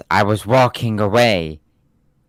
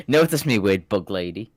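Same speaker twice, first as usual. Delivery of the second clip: anime fan plea. Retold or imitated.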